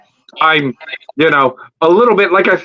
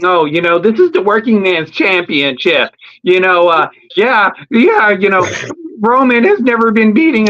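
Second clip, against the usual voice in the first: higher mock wrestler promo voice; Seth Rollins promo voice; 5 semitones higher than usual. Seth Rollins cuts a promo about his title, mock higher voice.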